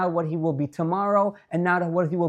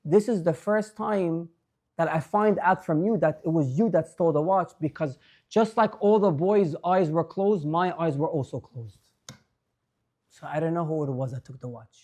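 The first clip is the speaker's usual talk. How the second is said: gentle reply; 2 semitones lower than usual. Retold or imitated. Old rebbe answers gently.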